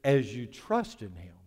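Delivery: "trust" leaned on, slow pace; slow the phrase and weight "trust"; deliberate emphasis on "trust"; stress on trust. Real, not acted. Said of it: "I want to emphasize a different word".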